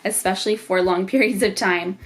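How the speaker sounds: short of breath, pausing for air; heavily pregnant, talking out of breath. Real, not acted. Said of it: "I am so out of breath throughout this entire video".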